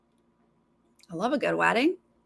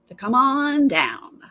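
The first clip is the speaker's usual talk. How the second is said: game show announcer; 6 semitones higher, 5 dB louder than usual. Retold or imitated. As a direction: boom it like the show's host. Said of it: "and then you're like".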